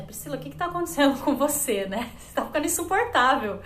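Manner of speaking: retold friends' confrontation. Friends confront Priscila about how she had changed, amused mock reproach. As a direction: imitate exasperated friends, half laughing, quickly.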